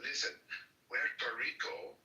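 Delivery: imitating a singer. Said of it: "when he says".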